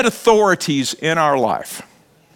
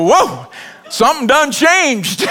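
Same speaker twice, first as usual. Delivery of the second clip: mock surprise; 7 semitones higher, slower than usual. Father's mock reaction.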